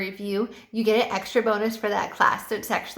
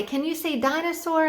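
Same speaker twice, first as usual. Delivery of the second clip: enthusiastic teacher; 6 semitones higher than usual. Shown as a demonstration. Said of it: "you have to be very enthusiastic".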